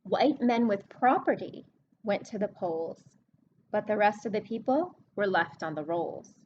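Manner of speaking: storybook reading voice; reading a rhyming book to kids. Acted. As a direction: read the verse to the class, leaning on the rhyme. Teacher reads rhyming book aloud.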